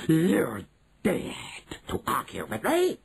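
whispered slow witch menace; screaming witch. Acted. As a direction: hiss it as the witch. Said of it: "screamed the Grand High Witch".

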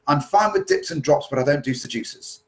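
mock a Wolverhampton lady's Black Country twang; bad Wolverhampton accent. A dance lady from Wolverhampton, in a light Black Country accent. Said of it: "apologies for the bad accent".

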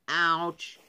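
mild, sad moan of pain. A narrator's reading. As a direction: moan it a little sadly. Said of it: "he moaned sadly".

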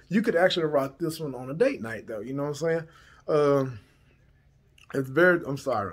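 talking while chewing gum; words round a piece of gum. Real, not acted. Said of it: "I'm chewing gum too".

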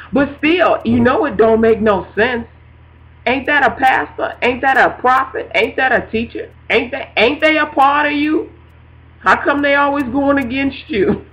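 questions pressed one after another, voice lifting at the end; mock-exasperated grilling of the Lord; frustrated complaint to God. Speaker grumbling to God about disobedient people, mildly exasperated. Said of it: "He knows I'm frustrated".

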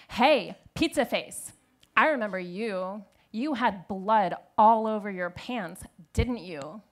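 lightly voiced bully, loud opening; mocking playground call-out; schoolyard taunt. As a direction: jeer at a classmate in front of others. Taunting classmate acted out.

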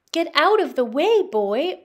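king's loud urgent command; commanding order. Acted. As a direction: order him aside, loud and high. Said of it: "ordered the king".

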